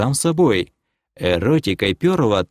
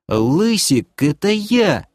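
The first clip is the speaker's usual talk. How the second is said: high, eager squawk; yelped claim; 8 semitones higher, slower than usual. Acted. Doc butts in on the demoness, eagerly yelping. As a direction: pipe up to claim it. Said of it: "вякнул Ток".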